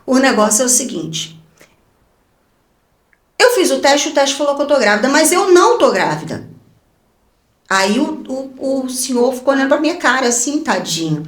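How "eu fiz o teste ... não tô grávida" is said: afirme mais agudo, sem admitir discussão; cheia de autoridade. Retold or imitated. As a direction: autoridade encenada diante do médico. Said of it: "cheia de autoridade". (com autoridade, categórica)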